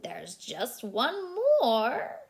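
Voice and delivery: slow, lightly voiced toad; slow mock-spooky toad. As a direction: draw it out like a toad. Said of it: "says Toad".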